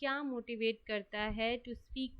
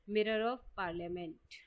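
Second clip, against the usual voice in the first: slow answer; much slower than usual. Shown as a demonstration. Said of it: "तो इसका answer है".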